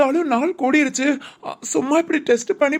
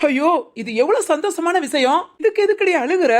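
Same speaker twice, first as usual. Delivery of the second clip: higher-pitched joyful exclamation; delighted fussing; 4 semitones higher than usual. Acted. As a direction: gently scold someone crying over good news. Delighted scolding over happy news. (சந்தோஷத்தில் செல்லமாகக் கடிந்து)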